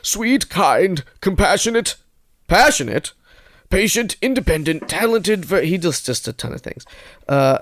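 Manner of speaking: a hint of an old man reading his ad; lightly aged voice listing hobbies. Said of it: "old man voice".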